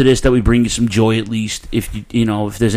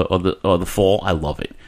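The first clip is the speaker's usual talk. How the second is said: ordinary talk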